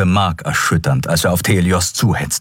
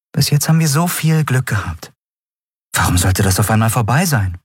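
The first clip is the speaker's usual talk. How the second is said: higher, hopeful reassurance; lightly voiced, higher-pitched encouragement; encouraging; 5 semitones higher than usual. A narrator's reading. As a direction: try to cheer him up. Forcing hope to comfort him.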